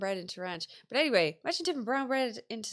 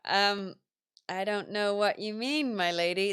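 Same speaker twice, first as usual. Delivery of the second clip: playing dumb. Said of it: "I used to love playing dumb".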